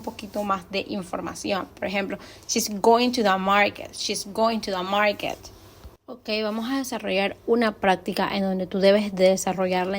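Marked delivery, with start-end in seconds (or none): 2.5-5.4 GOING and MARKET stressed, "to the" light; stress on informative words. Shown as a demonstration. Teacher giving an example of emphasis, stress on GOING and MARKET. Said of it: "se le da énfasis en aquellas palabras".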